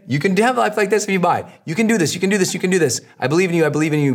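rally the listener, over and over; cheering on. Shown as a demonstration. Showing creators how to cheer customers, encouraging. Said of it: "You have to cheer people on".

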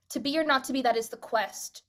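"that is the quest" with the line cut before "in"; stopping at quest. Shown as a demonstration. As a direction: land on "quest" and drop the "in". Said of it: "from a scansion perspective".

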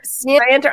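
Scienter as "see-EN-ter", rising like a question; questioned pronunciation. Retold or imitated. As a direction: try out Scienter with a "see" start. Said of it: "You, you say scienter?".

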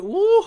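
high-spirited woo; delighted whoop. Real, not acted. Host raving to listeners about favourite bundt cakes, delighted whoop. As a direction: let out an excited woo over the treat.

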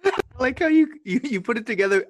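amused laugh breaking into words; chuckling while teasing a friend. Real, not acted.

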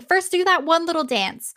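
a touch of excited chatter; excited lords. Retold or imitated. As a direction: gush it like thrilled kings. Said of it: "they're really excited".

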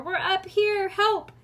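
high, loud yell; urgent high-pitched shout; calling for help. A narrator's reading. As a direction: holler down to your rescuer. Trapped children calling for help.

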